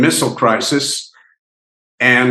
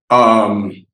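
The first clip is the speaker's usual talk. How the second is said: choked up; 4 semitones lower than usual. Real, not acted. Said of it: "oh, this is getting me".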